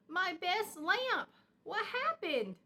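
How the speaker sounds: high, slow, drawn-out dismay. A narrator's reading. Mama Bear asks her cubs what happened, high and slow. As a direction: stretch it out, heartbroken. Mama upset at broken lamp.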